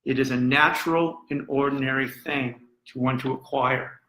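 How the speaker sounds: understated, weighty quoting; measured quotation of a whisperer. Retold or imitated. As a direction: recite it evenly, like confidential advice, without whispering. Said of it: "he's whispering into the ear of Harvey Weinstein".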